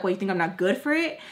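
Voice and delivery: quick, mildly sassy retort; a little sassy. Retold or imitated. Friend challenged over borrowing money, a little sassy. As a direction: imitate a friend taking slight offence. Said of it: "starts getting, like, a little sassy".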